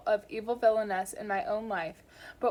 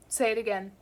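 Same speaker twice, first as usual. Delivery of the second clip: said as an order. Acted. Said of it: "It comes out as an order".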